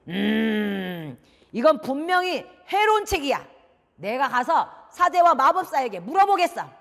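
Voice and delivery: long hum, then loud accusation; stern suspicious father. Acted. Father who cannot read condemning the book, stern.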